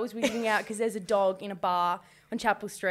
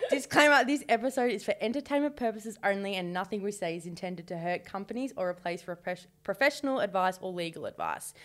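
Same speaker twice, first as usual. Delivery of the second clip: lower, formal legal-notice delivery; disclaimer read; 3 semitones lower, 3 dB quieter than usual. Acted. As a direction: read it out like small print. Reads out a disclaimer.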